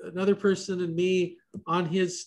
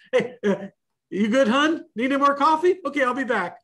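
chirpy high diner waitress voice, louder; 6 semitones higher, 5 dB louder than usual. Retold or imitated. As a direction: play a cheery waitress topping up coffee. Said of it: "I'm like the waitress at Denny's".

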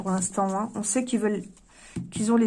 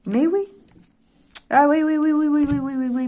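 excited agreement; 5 semitones higher, 5 dB louder than usual. Real, not acted. Emphatic agreement with the cards.

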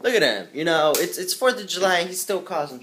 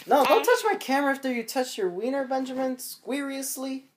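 mock scolding; 11 semitones higher than usual. Real, not acted. Scolding son touching camera.

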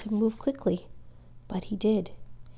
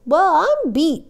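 high, loud, drawn-out astonishment; slow, booming exclamation of amazement; amazed father; 9 semitones higher, 9 dB louder, slower than usual. A narrator's reading. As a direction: exclaim in happy disbelief. Father amazed at dog's return.

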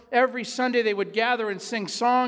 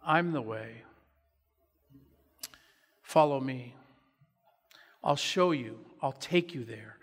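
tender; 5 semitones lower than usual. Acted. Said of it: "in a tender voice".

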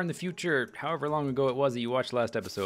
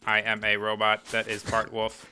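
stiff, even robot monotone; lower, mechanical robot delivery; 3 semitones lower than usual. Pretend. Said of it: "can you say that in robot voice?".

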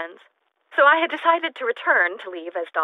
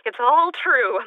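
excited; 4 semitones higher, 5 dB louder, slower than usual. Acted. Giddy discovery of proof.

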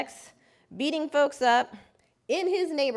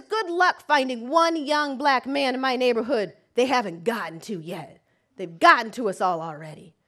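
bitter anger; 5 dB louder than usual. Retold or imitated. Bitter client.

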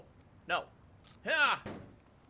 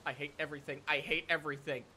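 low, quiet, defeated mumble; dejected muttering; 8 semitones lower, 7 dB quieter, much faster than usual. Real, not acted. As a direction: say it softly, utterly fed up. Dejected after losing progress.

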